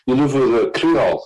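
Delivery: hammed-up accusing taxi driver; mock-angry driver shouting at the broke tourist. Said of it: "He was angry".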